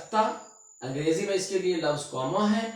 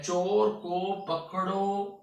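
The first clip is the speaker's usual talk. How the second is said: "चोर को पकड़ो" slow and raised, held open at the end; held before a pause; 4 semitones higher, much slower than usual. Shown as a demonstration. Teacher placing a comma in the sentence, pause after "पकड़ो". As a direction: stretch "पकड़ो" and stop for the comma. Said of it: "यहाँ पर एक अलामत लगाता हूँ".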